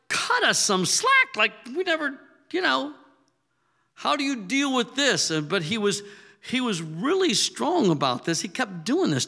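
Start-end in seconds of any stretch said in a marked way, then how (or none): 0.1-5.3 high, strained plea for slack; mock exasperated shout. Disciples shouting back at Jesus, exasperated and high. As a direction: cry out like frazzled disciples. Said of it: "They're like".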